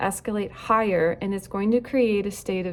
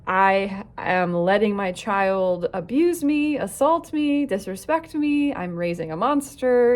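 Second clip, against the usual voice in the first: spiral into indignant panic; upset parent; 3 dB louder than usual. Acted. Coach voicing the parent's conditioned brain, upset and indignant. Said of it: "My conditioned brain is saying".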